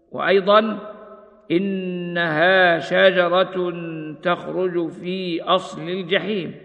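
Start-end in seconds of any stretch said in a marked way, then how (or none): 1.5-6.6 slow, measured tartil chant; slow Quranic recitation. Acted. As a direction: recite it slowly with tajweed. Recites verse in tajweed style.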